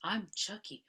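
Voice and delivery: slow high doll voice; sing-song toy doll greeting; talking doll. Retold or imitated. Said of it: "starts to sound like the doll again".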